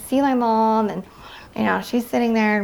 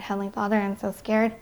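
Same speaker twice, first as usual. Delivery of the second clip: quietly voiced plea to God, softer; retold prayer; 5 dB quieter, faster than usual. Recalling her frightened prayer in the nightmare, quietly. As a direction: pray it softly, as if recalling it. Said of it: "yeah, I said".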